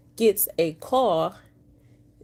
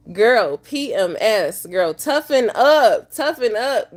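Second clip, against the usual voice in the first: self pep talk; 2 semitones higher, 7 dB louder than usual. Real, not acted. Loud pep talk to herself.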